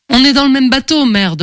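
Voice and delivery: plus aigu et plus fort, énervée; les rappeler à l'ordre; lancé fort. A narrator's reading. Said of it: "leur lançai-je". (lancer avec force aux deux hommes)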